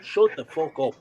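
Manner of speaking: loud angry retelling of shouting down two fans; retold angry outburst. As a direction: bark it at the two lads behind you. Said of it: "I said".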